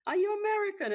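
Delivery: mock-astonished, high squeak of a question; surprised question. Locals quizzing the Brazilian newcomer, high astonished squeak. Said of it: "so then they were like".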